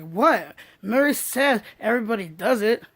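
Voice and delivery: defensive shrug. Pretend. Imagined person defending herself.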